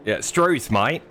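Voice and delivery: put-on "Struth" in a hammy Australian accent; a mock Aussie greeting. Answering the laughing guest, mock Australian accent. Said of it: "your Australian accent is just terrible".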